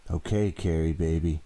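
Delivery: sing-song sweetness before the blow; happily. A narrator's reading. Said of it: "she said happily".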